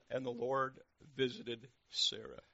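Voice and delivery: slow, weighty, projected verse; emphatic scripture reading. Real, not acted. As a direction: proclaim it slowly.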